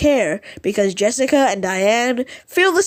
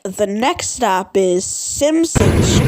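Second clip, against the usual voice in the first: slow announcer imitation; slower than usual. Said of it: "Diane Thompson goes like".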